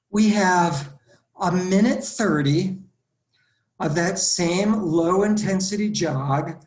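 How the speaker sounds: loud, panting between short bursts; breathless instructor pushing through; out of breath. Real, not acted. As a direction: gasp the words out after the exercise. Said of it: "now that I'm all out of breath".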